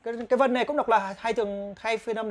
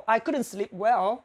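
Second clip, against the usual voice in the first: slow demo; slower than usual. Shown as a demonstration. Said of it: "slow model sentence".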